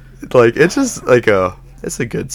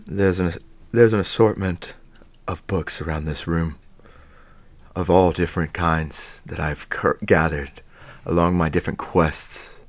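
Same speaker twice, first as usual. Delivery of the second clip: put-on low, measured old wizard voice; lightly voiced wise old wizard; 4 semitones lower than usual. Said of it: "now do your wizard voice just with your regular accent".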